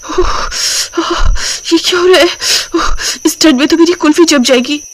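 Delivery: put-on young bride grumbling about the cold. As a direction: fret through the cold, half asleep. Bride shivering from cold at night.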